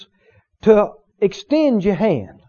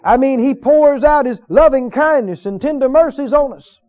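raised, emphatic preacher's cadence; fervent preaching; 5 semitones higher, 3 dB louder than usual. Real, not acted. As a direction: preach it with mounting joy. Preaches with rising fervour.

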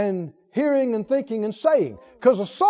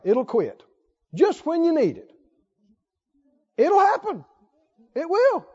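mock insistent naysayer; adamant doomsayer; 3 semitones higher than usual. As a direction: insist on doom, as if certain. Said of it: "People will get adamant and go".

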